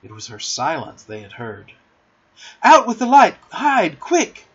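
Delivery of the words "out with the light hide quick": high, loud, urgent orders; sharp, hurried command; commanding cry. A narrator's reading. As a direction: take charge and shout the alarm. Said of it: "cried John, taking command".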